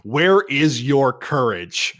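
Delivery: slow, declaimed challenge, short of a scream; understated version of screaming at a crowd; mock rallying cry. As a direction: call out the accusation slowly and grandly. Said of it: "kinda screams at everyone".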